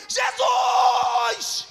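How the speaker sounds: high, loud cry of the name; a blind man defying the crowd; defiant shout. Retold or imitated. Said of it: "Então vou gritar".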